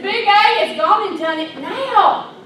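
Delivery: put-on kid's excited news. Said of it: "I said".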